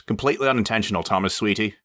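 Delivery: quick, sweet and insincere; butter him up slyly; sugary fake sweetness.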